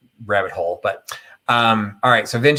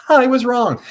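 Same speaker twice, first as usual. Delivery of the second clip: high laughing admission; 5 dB louder than usual. Real, not acted. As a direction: laugh it out, self-mocking.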